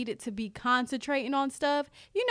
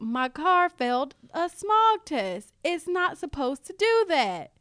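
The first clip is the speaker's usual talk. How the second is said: mock glum; slower than usual. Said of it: "He's like".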